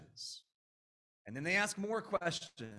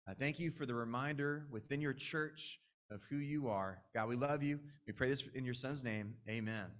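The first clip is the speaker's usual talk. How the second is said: prayer; 3 semitones lower than usual. Acted. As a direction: pray aloud over the congregation. Pastor leads opening prayer.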